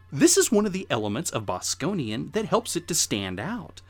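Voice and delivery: ordinary talk, nothing marked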